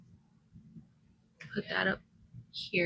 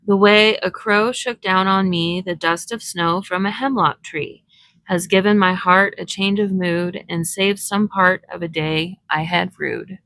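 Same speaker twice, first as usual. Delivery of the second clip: poem reading. A narrator's reading. Reading a snow poem to her craft viewers, recited. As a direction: read the poem gently to your viewers. Reads Frost poem aloud.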